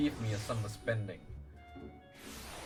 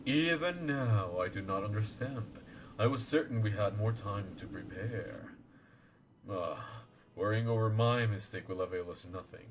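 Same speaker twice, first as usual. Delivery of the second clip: lower, solemn elder voice; wise old lord; 4 semitones lower than usual. Acted. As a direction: speak as a grave ancient guardian. Voicing Genbu lord.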